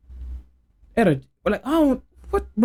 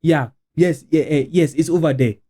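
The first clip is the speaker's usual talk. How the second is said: put-on nervous accented English; 4 semitones lower than usual. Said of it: "instead of speaking like this".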